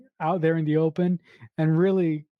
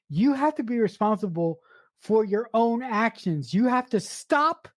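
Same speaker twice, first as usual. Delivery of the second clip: acted-out exasperation, pitched higher; emphatic retold telling-off, raised pitch; fed-up outburst; 4 semitones higher than usual. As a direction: lay down the law as someone who has had it. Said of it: "Dottie has had it".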